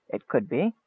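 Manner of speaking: very soft, low reply; sinister wizard. A narrator's reading. Wizard teasing them about a trap, hushed and low. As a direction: let it out quietly and low.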